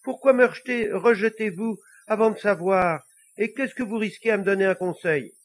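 high, loud, indignant little devil; protesting little devil. Acted. Little devil challenging the Pope's refusal, high and protesting. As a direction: argue back in a high small voice.

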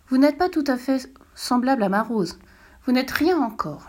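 a hint of a child speaking up; little prince voice.

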